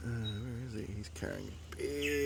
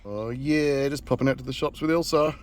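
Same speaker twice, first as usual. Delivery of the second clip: calling out; 4 semitones higher, 7 dB louder than usual. Real, not acted. Greeting passing neighbour.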